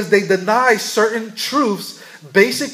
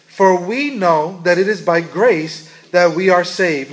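each word read out slowly and deliberately; slow scripture reading; slower than usual. Shown as a demonstration. Preacher reading the Book of Mormon slowly to the congregation. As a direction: let the verse land slowly, word by word. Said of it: "it says this".

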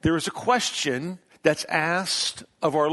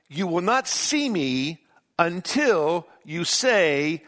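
very slow, deliberate reading; slow scripture reading; slower than usual. Acted. Pastor reading Jesus' words to congregation, slow and solemn. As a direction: draw out each word of the verse. Pastor reads slowly from Matthew.

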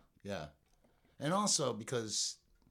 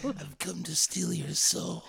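mock villain; 4 semitones higher, slower than usual. Joke villain line, drawn out.

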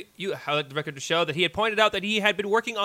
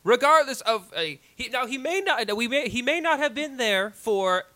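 courtroom lawyer; 2 semitones higher than usual. Acted. Closing argument continued.

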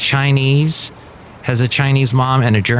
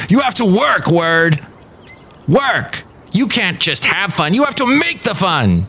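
put-on German accent; 7 semitones higher than usual. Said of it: "German scolding reprise".

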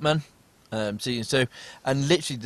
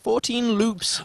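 high, slow, awestruck repeat; awed emphasis; 10 semitones higher, much slower than usual. Real, not acted. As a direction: stretch it out in wonder. Repeating the record loop count.

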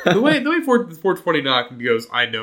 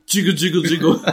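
sung out through laughter; laughing jiggle; 4 semitones higher, 5 dB louder than usual. Shown as a demonstration. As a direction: demo the knock while cracking up. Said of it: "just going".

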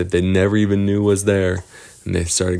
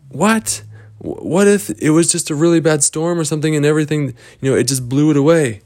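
high, fast protest; disbelieving kids; 8 semitones higher, 3 dB louder, faster than usual. Acted. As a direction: blurt out the objection. Kids protest troll's sign.

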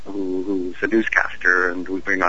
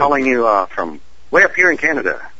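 Canadian voice; 2 semitones higher than usual. Shown as a demonstration. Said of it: "That's my Canadian voice".

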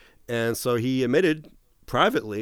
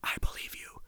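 unvoiced-free hushed whisper, very soft; barely audible confiding whisper; 9 dB quieter than usual. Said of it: "and he whispered".

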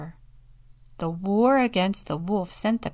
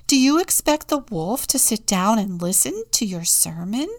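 loud, higher challenging question; interrupting; 4 semitones higher, 7 dB louder than usual. A narrator's reading. Contessa doubting the friar's sermon, interrupting. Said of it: "interrupted the Contessa".

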